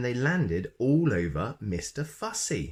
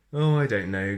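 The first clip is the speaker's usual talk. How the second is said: grinning; 6 dB louder than usual. Acted. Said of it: "grinned Mister Clumsy".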